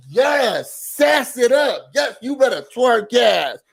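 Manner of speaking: high, slow mock cheering; mock hype. Vlogger mockingly cheers the houseguest, hammed-up high shout. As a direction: hype her up sarcastically.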